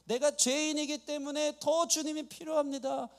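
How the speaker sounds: high, pleading insistence; acted crying out. Sinner insists he needs the Lord, high imitated plea. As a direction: plead upward as the desperate blind man. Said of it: "예수님께 소리 지르는 이 바디메오".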